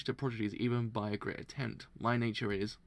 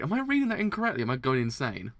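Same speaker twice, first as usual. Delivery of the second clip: retold self-doubt; 2 semitones higher, 6 dB louder, faster than usual. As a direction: exclaim it in mock panic at your own confusion. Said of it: "I was like".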